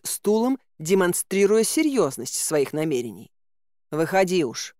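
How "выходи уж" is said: mildly resigned, giving in; a touch of a weary sigh; обречённо. Acted. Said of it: "обречённо вздохнул Замок". (с лёгкой обречённостью)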